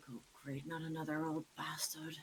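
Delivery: very quiet, hushed mutter under the breath. Playing a character who meets an old gent at the door: muttering quietly to herself. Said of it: "Shorty just mutters to herself rather quietly".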